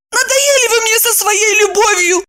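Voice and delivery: high exasperated girl's outburst, mildly voiced; mock cry. A narrator's reading. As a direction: throw it out high and fed up. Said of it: "крикнула она".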